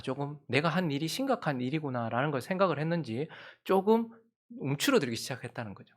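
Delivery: ordinary delivery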